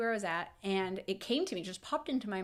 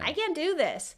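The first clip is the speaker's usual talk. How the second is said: retold crying; 9 semitones higher, 5 dB louder than usual. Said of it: "and I started crying".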